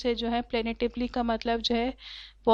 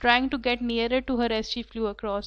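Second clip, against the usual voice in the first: slow reading; much slower than usual. A narrator's reading. Rereads sentence slowly.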